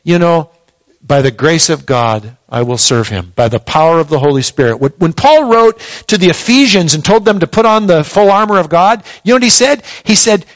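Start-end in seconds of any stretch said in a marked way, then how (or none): 1.0-4.8 humble confession. Shown as a demonstration. Pastor models what believers should say, humbly. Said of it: "The best thing for us to say is".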